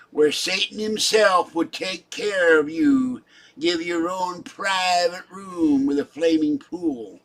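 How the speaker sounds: lightly voiced pompous scolding, slowed; mock condemnation of a troll, drawn out; ten-star general persona. Condemning a troll in chat, a hint of the general. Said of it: "I could talk like that forever".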